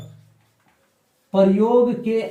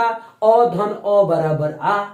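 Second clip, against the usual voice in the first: slow sum of vowels; much slower than usual. Shown as a demonstration. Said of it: "आ में कौन कौन सा मात्रा?".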